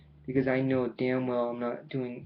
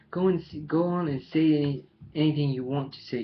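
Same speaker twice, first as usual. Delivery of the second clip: mild exasperation; 3 semitones higher, 5 dB louder than usual. Acted. Quarrel in prison cell escalates.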